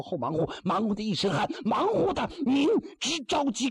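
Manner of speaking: sly Taoist in hammed-up lament, often high; mock-weeping Taoist. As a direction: pretend grief, voice climbing high. Taoist keeps weeping over the body. (老道假哭诉，声调时常拔高)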